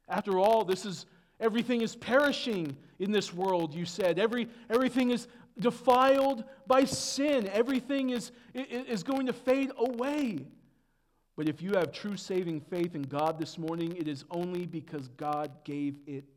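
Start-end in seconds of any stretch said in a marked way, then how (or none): 0.1-10.4 raised, insistent sermon delivery; emphatic preaching. Acted. Preacher voices a listener's worry that all perishes, emphatic preaching. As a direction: preach it with rising urgency.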